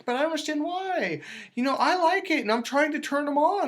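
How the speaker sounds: high-pitched mock woman's voice; complaining woman. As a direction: imitate a puzzled woman pleading her case. Voices women complaining about men.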